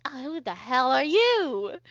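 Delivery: slow, mildly affronted demand; startled older lady. Acted. Older lady spots the strangers, affronted. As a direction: draw it out at the strangers, a touch rude. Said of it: "she looks at all of you and she goes".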